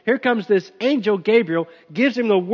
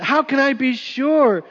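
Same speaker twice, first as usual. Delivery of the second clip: higher, slower puzzled question; doubting Zechariah; 5 semitones higher, slower than usual. Retold or imitated. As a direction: ask it like a skeptic. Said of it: "I love this answer".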